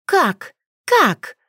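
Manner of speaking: high, loud barked retort; barking. Acted. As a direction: snap like a barking dog. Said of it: "натурально гавкать на Альфу".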